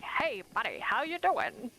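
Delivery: light mid-Atlantic forties movie accent, breezy; a hint of a 1940s film mid-Atlantic greeting. Shown as a demonstration. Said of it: "forties movie accent".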